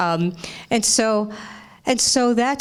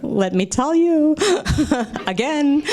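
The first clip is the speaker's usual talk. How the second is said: bragging Jewish mother; 3 semitones higher than usual. Retold or imitated. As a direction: gush and brag with a laugh. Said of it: "She was bragging in every synagogue".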